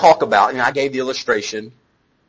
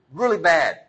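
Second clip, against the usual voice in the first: ordinary talk, nothing marked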